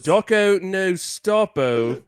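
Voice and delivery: high, loud, laughing through the words; laughing mock slang. Repeating the Australian -o joke while laughing hard. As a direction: crack up while saying it. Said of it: "He's like".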